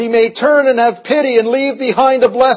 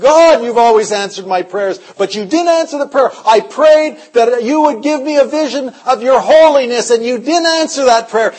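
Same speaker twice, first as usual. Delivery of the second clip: raised, pleading complaint to God; crying prayer; 4 semitones higher, 3 dB louder than usual. Retold or imitated. Kneeling alone in the apartment, a tearful pleading prayer. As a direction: plead through tears, higher. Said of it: "and I was crying".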